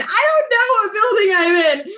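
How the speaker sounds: high, cracking sob through the words; retold sobbing. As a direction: wail it like a panicked crying girl. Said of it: "I'm bawling my eyes out".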